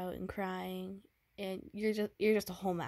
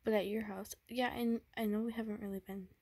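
put-on tender boyfriend; 3 semitones higher than usual. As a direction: coax her gently, afraid of what's coming. Boyfriend comforts sick girlfriend, fearing breakup.

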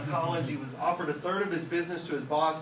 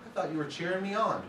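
high "Oh" easing into his own voice; cheerful frog; 3 semitones higher than usual. Acted. Frog who misheard the jeers as cheers, lightly voiced. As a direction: play the naive frog, light and pleased. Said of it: "And he goes".

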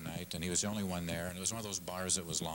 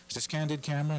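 high, louder suspicious ask; suspicious question; 6 semitones higher, 4 dB louder, faster than usual. Retold or imitated. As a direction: ask it like he's being pranked. Joke patron questions bartender.

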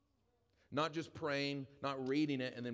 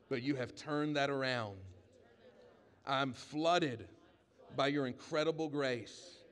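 leading prayer; slower than usual. Acted. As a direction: lead the church in prayer, rising with conviction. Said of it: "Everybody lift a hand and say".

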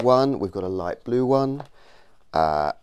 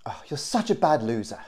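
whisper; 4 semitones higher than usual. Acted. Aside about the other player.

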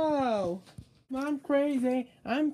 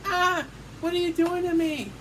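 panicked cry; 5 semitones higher, 3 dB louder than usual. Pretend. Toy character being eaten.

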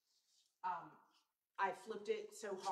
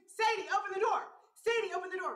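calling loudly, much higher and louder; retold scream; 9 semitones higher, 12 dB louder than usual. Retelling how she screamed for Sadie to open the door, loud. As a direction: yell it for your daughter to open the door. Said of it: "I screamed".

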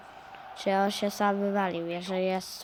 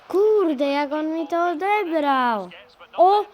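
frustrated; 4 semitones higher, 4 dB louder than usual. Real, not acted. Frustrated at losing the ball.

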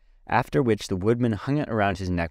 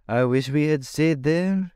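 high, moaning pumpkin-head voice; 7 semitones higher than usual. A narrator's reading. Jack wishing they never left the palace, high moan. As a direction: whine it like a frightened pumpkin. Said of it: "moaned Jack".

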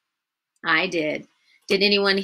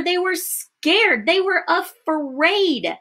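dramatic storytelling; 8 semitones higher, much slower than usual. A narrator's reading. Dramatizing disciples' fear for children.

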